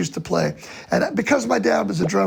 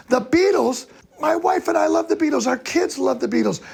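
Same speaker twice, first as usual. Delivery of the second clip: higher-pitched, lightly acted excited father; excited dad; 6 semitones higher than usual. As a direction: gush like a delighted dad. Dad's excited reaction retold.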